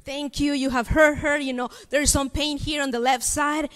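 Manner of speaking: softly spoken prayer; mild, quiet praying voice; retold prayer. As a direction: replay a gentle prayer over a child. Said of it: "I start praying".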